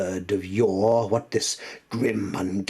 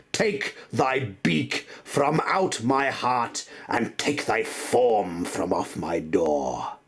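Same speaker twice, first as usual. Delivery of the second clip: furious command; 5 semitones higher, 4 dB louder than usual. Acted. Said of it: "I shrieked".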